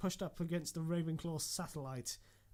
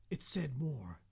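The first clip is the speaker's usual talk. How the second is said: hushed whisper; slower than usual. Acted. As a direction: whisper it urgently. Urging to keep reading.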